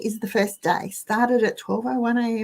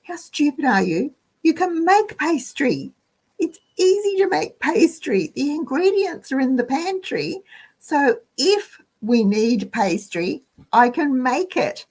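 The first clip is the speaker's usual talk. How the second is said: higher, brisk pep talk to herself; self-reassurance; 6 semitones higher than usual. Retold or imitated. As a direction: shake it off and talk yourself round. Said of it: "just went".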